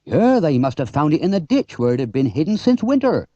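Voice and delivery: a hint of a gruff country farmer; dismissive farmer, lightly played; lightly voiced farmer. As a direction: farmer brushing it off. Farmer Hearn voiced in story.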